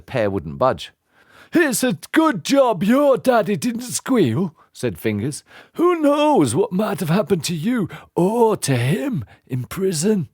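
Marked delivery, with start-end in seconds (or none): 1.5-10.3 menacing henchman. Acted. Henchman warning the boy, sly and menacing. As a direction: lean in with a veiled threat.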